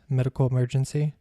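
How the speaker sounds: lightly stressed "medical emergency"; "medical emergency" gently underlined. A narrator's reading. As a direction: set out "medical emergency" with slight emphasis, ending on a rise. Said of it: "stressing the words".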